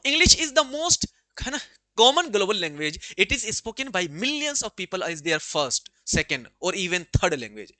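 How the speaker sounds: measured dictation pace for the class; slow, deliberate textbook reading; slow reading aloud. Acted. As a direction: spell it out word by word for students. Reads textbook answer aloud slowly.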